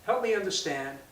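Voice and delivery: measured, non-accusatory request; nice asking. Shown as a demonstration. Showing a nice way to question someone, non-accusatory. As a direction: ask it nicely, without condemning. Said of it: "That's a nice way of asking a question".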